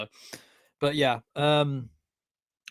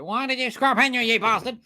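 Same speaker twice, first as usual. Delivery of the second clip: angry; 10 semitones higher than usual. Acted. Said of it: "'cause it's like".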